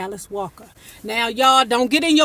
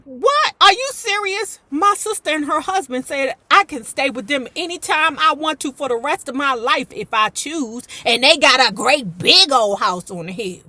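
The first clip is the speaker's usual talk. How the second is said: outraged Sophia; 2 semitones higher than usual. Retold or imitated. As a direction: play her shocked pride. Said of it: "Sophia was like".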